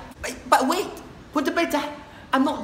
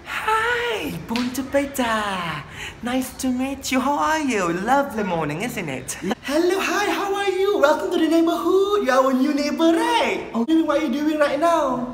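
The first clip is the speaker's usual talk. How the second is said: high, bright chirpy welcome; eager auntie welcoming the new neighbour; 4 semitones higher than usual. Acted. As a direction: greet the new neighbour sweetly. Cheerful Malaysian neighbour greeting.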